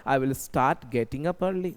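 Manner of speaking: very slow, each word laid out for the class; slow model sentence. Shown as a demonstration. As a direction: dictate it slowly like a teacher. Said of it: "मैं जल्दी उठना start कर दूंगा". (बहुत धीरे, साफ़-साफ़)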